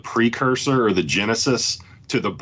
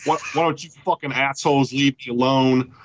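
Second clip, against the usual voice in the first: mock defiant patrons; 5 semitones higher than usual. Bar patrons answer the questioning cop.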